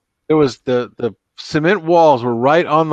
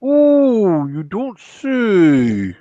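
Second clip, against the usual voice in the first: very slow, pursed-lip ooh; frog's tiny-mouthed reply; 7 semitones higher, 4 dB louder, much slower than usual. Acted. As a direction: squeeze the mouth small and drag it out. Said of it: "He goes".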